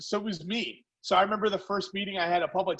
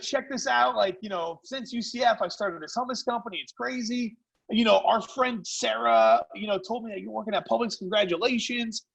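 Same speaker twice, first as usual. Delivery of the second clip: higher-pitched, eager retold sales patter; chummy buttering-up; 4 semitones higher than usual. Caller snowballs supposed classmate, chummy buttering-up. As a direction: talk him up like an old pal.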